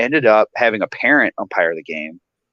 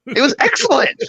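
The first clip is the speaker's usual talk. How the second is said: laughing; 12 semitones higher than usual. Real, not acted. Laughing at the egg joke.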